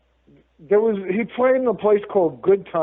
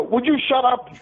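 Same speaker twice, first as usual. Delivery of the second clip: higher-pitched retold scolding; mock exasperated; 7 semitones higher than usual. Comedian scolds a dummy mid-fight, mock exasperated. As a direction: act out fed-up hushing.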